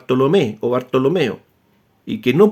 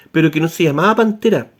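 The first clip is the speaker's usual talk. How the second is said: Pantera stressed as the wrong name; contrast Pantera; faster than usual. Shown as a demonstration. Correcting a listener's mistaken name, stressing Pantera. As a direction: say "Pantera" as the name it was not. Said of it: "la palabra Pandira le sonó a pantera".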